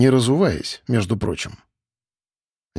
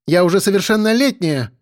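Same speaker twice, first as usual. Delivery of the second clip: heated exclamation; 7 semitones higher than usual. A narrator's reading. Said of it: "горячо воскликнула Элла".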